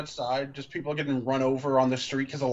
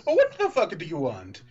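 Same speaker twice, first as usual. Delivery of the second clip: louder, sharp angry demand; 4 semitones higher, 4 dB louder than usual. Acted. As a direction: snap at her angrily. Edward snaps in reading.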